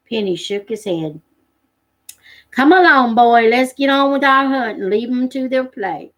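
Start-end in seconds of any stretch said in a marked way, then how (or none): 2.5-6.1 louder, firm fatherly call. Acted. Penny calls his son away from the cubs, firm and louder. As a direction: call the boy along, firm but kind.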